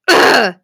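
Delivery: loud disgusted groan; throaty ugh of exasperation; frustrated ugh. Real, not acted. Frustrated over stressful medication juggling.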